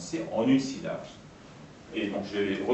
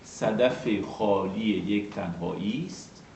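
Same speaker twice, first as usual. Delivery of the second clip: measured reading of a line of Persian poetry; even, metrical verse reading; Persian verse recitation; 3 semitones lower than usual. Shown as a demonstration. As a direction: recite it evenly, letting each foot be heard. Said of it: "de onze pieds".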